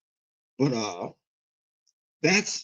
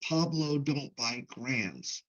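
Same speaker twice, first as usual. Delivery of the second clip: slow deadpan punchline; 4 semitones lower, 9 dB quieter, much slower than usual. Retold or imitated. Punchline at the barbershop.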